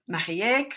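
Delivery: Mariek in two main beats, ma-ree-EK; alternative pronunciation. Shown as a demonstration. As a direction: say Mariek without a final A, ma-hee-EK. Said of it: "for pronunciation is totally fine".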